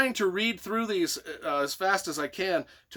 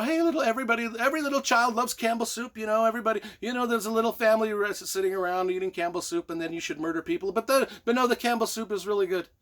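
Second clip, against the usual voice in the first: mock soup ad voice; 4 semitones higher, faster than usual. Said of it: "Campbell soup ad".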